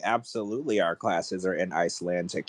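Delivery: dry, understated know-it-all retort; smartass. Retold or imitated. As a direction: imitate a smug admissions clerk putting someone down. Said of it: "a little bit of a smartass".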